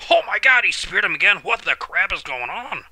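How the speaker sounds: outraged fan yelling at the screen; shocked shout. Real, not acted. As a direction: yell it out in real shock. Second spear shocks him.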